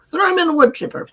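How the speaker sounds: high quoted friend, laughing through it; deadpan joke quote. Retold or imitated. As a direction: toss it off as a dark joke. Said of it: "He's like".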